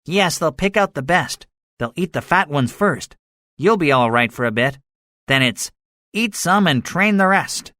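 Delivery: high-pitched soldier, warming to his grim theory; gunner predicting doom. A narrator's reading.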